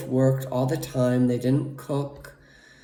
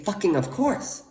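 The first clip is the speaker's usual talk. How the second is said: loving parent. Pretend. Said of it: "Second thing I'd say".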